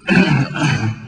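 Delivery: rough clearing of the throat. Real, not acted. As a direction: clear the throat mid-word. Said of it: "I have to cough for a little bit".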